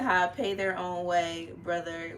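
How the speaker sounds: put-on slow Jamaican accent quote. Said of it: "with the Jamaican accent".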